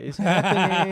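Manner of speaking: high, giddy mock excitement; retold hyped mom. Son imitates his mom awaiting his license, hyped. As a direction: imitate a mom thrilled at the news. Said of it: "She was so hyped".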